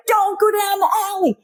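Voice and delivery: high pleading warning; talking to the screen. Retold or imitated. Viewer warning the film character, high pleading voice. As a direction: warn the character like a worried moviegoer.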